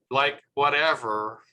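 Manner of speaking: lightly imitated Valley Girl; a hint of mock Valley Girl. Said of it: "they might go".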